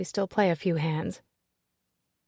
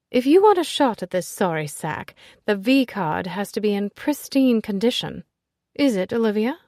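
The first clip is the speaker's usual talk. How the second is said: brash society lady; 3 semitones higher, 6 dB louder than usual. Acted. Ezzy greeting Nicholas at the party, loud and teasing. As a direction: greet him with a bawdy, affectionate jab.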